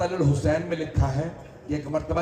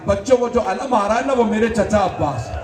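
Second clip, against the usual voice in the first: put-on hopeful child call; 4 semitones higher than usual. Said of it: "जनाब सकीना ने आवाज़ दी".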